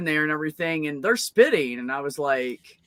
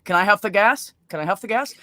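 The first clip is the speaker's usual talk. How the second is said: put-on eager kid begging; 4 semitones higher, 5 dB louder than usual. Little sister begging to join.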